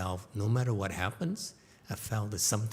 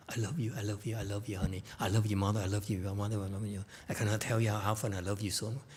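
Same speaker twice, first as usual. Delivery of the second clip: tender; 4 dB quieter, much faster than usual. Acted. Tender feeling for mother.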